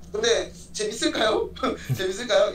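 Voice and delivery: chuckling while asking; laughing. Real, not acted. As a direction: ask it through a laugh. Laughing doubt about matchup.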